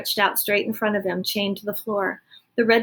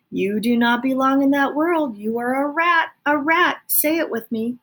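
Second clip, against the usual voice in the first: insistent rat; 5 semitones higher, 4 dB louder than usual. Acted. Botticelli indoctrinating.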